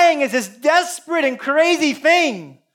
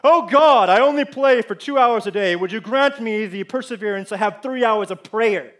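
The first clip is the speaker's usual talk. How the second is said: fake pious prayer. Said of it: "these fake prayers".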